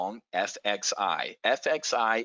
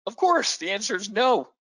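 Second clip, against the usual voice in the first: emphatic; 10 semitones higher, 5 dB louder than usual. Real, not acted. Emphatic rhetorical answer.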